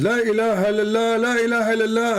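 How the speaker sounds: high, frantic repeated cry; hammed-up terror, pitched high; mock terrified cry. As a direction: cry it out like a frightened man. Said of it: "He's terrified".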